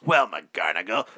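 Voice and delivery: gruff cop voice. Retold or imitated. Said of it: "I'll do this time for you, McGarnagle".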